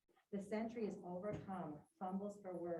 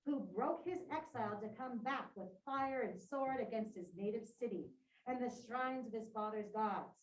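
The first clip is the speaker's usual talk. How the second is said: a lightly voiced king, firm and a touch louder; Creon's decree read aloud; 2 semitones higher, 4 dB louder than usual. Teacher reading Creon's decree to the class, firmly declaiming. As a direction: read it like a ruler laying down the law.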